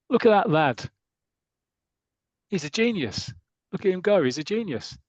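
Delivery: high, loud cheering fan; mock football fan cheering; excited fan. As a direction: cheer him on from the terraces. Fans cheering in comic.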